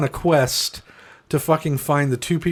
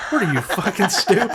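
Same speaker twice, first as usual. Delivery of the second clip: laughing mock scorn; 5 semitones higher than usual. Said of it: "my buddy's like".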